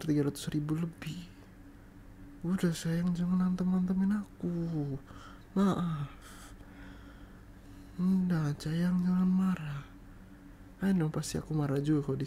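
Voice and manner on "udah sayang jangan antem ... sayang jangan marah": higher, drawn-out coaxing plea; pleading. Acted. Begging an angry partner to stop being mad, pleading. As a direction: coax sweetly, pitched up, begging forgiveness.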